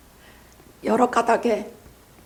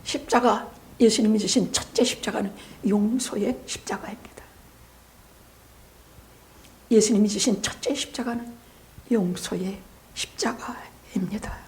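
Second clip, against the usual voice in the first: soft, hushed declaration, sinking at the ends; solemn preaching; 2 semitones lower, 6 dB quieter than usual. Real, not acted. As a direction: let each phrase settle quietly on the congregation. Preacher solemnly declares the sermon point. (나직하고 엄숙한 설교)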